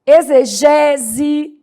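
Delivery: very slow Exegese, e-xe-GÉ-se; stress on GÉ. Shown as a demonstration. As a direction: stretch the GÉ in Exegese. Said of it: "a sílaba tônica".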